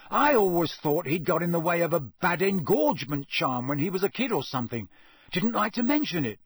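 lightly voiced amazed boy, lively pitch swings; Ron's dialogue voice. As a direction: marvel a little, drawing out the words. Narrator voices Ron in dialogue.

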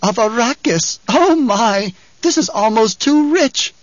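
high, giddy tenor hilarity; gleeful, high-pitched henchman; laughing. A narrator's reading. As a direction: crow it as if cracking up. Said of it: "Piter began to laugh".

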